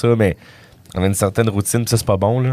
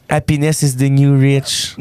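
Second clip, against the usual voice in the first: slow, measured radio-host delivery; slower than usual. Acted. Comedian reciting an Instagram-style quote, radio voice. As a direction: intone it slowly like a radio host. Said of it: "Avec sa voix radiophonique".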